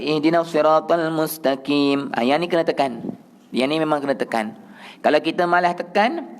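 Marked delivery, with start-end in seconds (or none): 0.0-2.1 "mustaqim" sounded as "mustakim"; chanted line with a light front k in "mustaqim"; wrong thin qaf. Shown as a demonstration. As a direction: recite "mustaqim" with the q turned into a thin k. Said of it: "Tak boleh".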